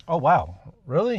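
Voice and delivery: mock-shocked, pitch jumping up on really; surprised.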